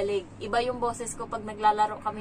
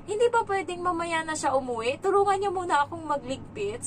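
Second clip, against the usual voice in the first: imitated child pleading; 7 semitones higher, 4 dB louder than usual. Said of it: "Yung parang sabi ng bata".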